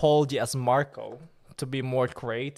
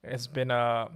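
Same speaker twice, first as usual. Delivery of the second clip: mock apology video; 4 dB quieter than usual. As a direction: parody a solemn celebrity apology video. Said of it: "You know those, like, sigh".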